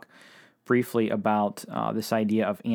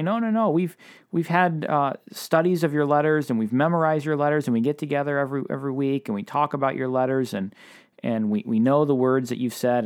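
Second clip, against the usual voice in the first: servants protesting; 4 semitones higher than usual. Retold or imitated. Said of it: "they, they say".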